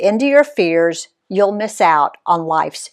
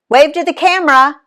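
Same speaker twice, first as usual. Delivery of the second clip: called out; 8 semitones higher, 5 dB louder than usual. Acted. Jump master calling out.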